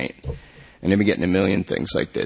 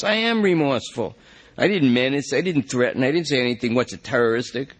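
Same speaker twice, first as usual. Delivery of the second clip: higher, insistent denial; pleading protest; 5 semitones higher than usual. Acted. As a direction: convince the cops he never threatened anyone. Lester protests innocence.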